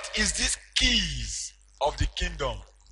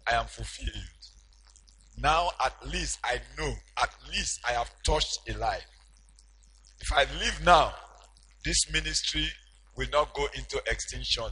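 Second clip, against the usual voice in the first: Jesus musing; 4 semitones lower than usual. Acted. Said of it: "he said to himself".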